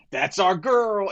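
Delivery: high, drawn-out imitation of a proud fan; Tony. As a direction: mimic the bar owner cheering slowly for his favorite. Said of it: "he's like".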